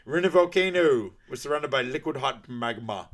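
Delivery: hammed-up villain rant; exasperated Doctor Evil. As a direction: scold the son like a weary villain. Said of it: "And he goes".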